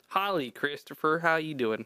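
playful southern howdy, stretched out slowly; southern accent. Pretend. Host greeting co-host with a joke howdy, playful southern accent. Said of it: "talking a southern accent".

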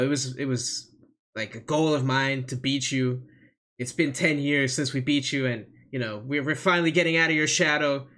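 earnest, measured challenge; Jimmy Uso. Pretend. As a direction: play a wrestler making a solemn speech. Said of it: "like, Jimmy's real serious".

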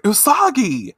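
high call of a name. Retold or imitated. Chibiusa spotting Usagi, high excited call. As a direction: shout her name across the crowd. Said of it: "So she's like".

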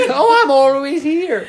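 high, slow bad Australian voice; badly faked Australian accent, drawn out; hammed-up Australian invalid calling back; attempted Australian accent. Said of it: "I can't do an Australian accent".

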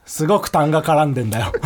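thick, phlegm-clogged voice; phlegmy throat. Real, not acted. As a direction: talk through a chesty throat.

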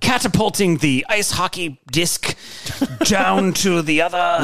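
put-on slow old-timey radio announcer. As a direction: draw it out like 1930s radio. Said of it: "your old-timey radio voice".

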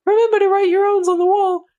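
very high cutesy bear voice; Snuggle. Acted. Mascot bear selling dryer sheets to listeners, in a tiny high voice. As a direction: plug it like a squeaky advert mascot. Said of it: "Always talks like this".

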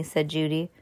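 plain reading voice

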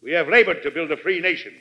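measured oratory with rolling emphasis; stately speech to Congress; formal presidential address. Acted. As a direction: address a great assembly, pausing between phrases.

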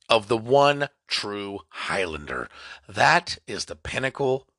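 slow, grand mock-epic proclamation; hammed-up heroic monologue with long pauses; over-dramatic speech. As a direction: orate it like a hero's eulogy, slowly. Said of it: "That was a little dramatic".

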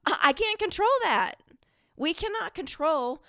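giggling the words out, amused at herself; laughing. Real, not acted. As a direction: still laughing as she speaks. Laughing after irritated impression.

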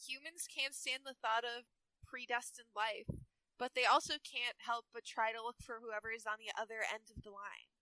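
lightly voiced Valley Girl; Lena. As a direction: read it as a mild Valley Girl. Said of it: "make Lena a Valley Girl".

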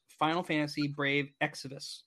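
slow, spelled-out name read; slow and deliberate. Shown as a demonstration. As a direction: say the name slowly for clarity. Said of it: "Can you say the name again?".

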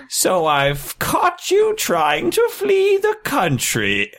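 high, slow put-on Korean accent. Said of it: "Oh, that was such a good Korean accent".

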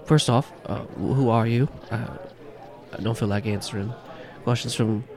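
put-on wary barman with a light Irish accent; guarded, lightly Irish questioning; Irish bartender. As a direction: challenge strangers in a mild brogue. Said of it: "this strong-built Irishman".

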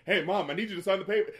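a son shoving papers at mom; pushy son. Retold or imitated. Son pushes papers on his mother, loud and hurried. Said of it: "jamming these papers in her face".

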